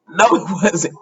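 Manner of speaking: a real laugh breaking into the no; real laughing dismissal of the plan; laughing denial. Real, not acted. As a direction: laugh through No, it wasn't.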